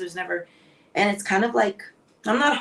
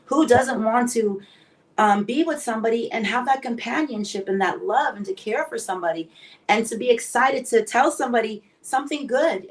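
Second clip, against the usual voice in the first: ordinary talk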